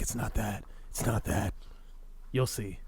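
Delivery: lightly voiced gravelly Bale; hint of a low Bale growl; Christian Bale impression. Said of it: "your impression of me is just Christian Bale".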